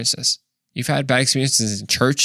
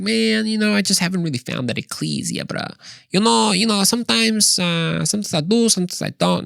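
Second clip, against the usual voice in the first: high, laid-back mock bro voice, half Italian half Mexican; exaggerated bro accent; 9 semitones higher than usual. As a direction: ham up a breezy coworker dodging the question. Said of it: "he actually didn't speak like that".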